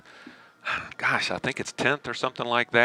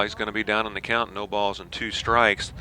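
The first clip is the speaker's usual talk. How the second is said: play-by-play. Acted. Live baseball play-by-play.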